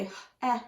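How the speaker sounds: eh sound as a closed syllable would say it; wrong closed-syllable sounds. Shown as a demonstration. Teacher sounding out the wrong vowel. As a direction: demo the short eh, the wrong way. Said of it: "But that's not how we say it".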